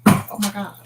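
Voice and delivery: startled by ant. Real, not acted. Wife suddenly spots an ant on camera, startled. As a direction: react as if a bug just appeared.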